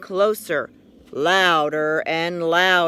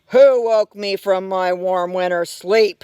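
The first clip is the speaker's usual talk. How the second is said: a louder, grumpy bear snarl; 6 dB louder than usual. Acted. Bear just woken from winter sleep, a loud grumpy snarl. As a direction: bark it like a bear woken too early. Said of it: "he snarled".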